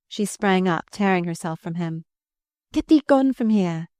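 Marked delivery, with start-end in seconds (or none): 2.7-3.9 shivering. A narrator's reading. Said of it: "she shivered".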